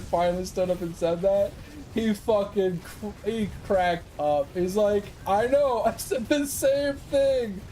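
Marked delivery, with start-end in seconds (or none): 5.3-7.6 high, slow, laughing through the words. Retold or imitated. Sergeant agreeing with staff sergeant, laughing. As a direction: laugh while admitting it.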